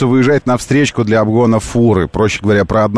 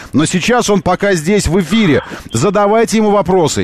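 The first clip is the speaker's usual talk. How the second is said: excited; 3 semitones higher than usual. Acted. Host hypes live guest to chat.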